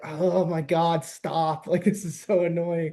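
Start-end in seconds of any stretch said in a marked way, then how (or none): 0.0-1.7 slow, weary "oh my God"; retold exasperation. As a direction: drag it out, fed up with the complaining. Retelling exasperation at the complainer.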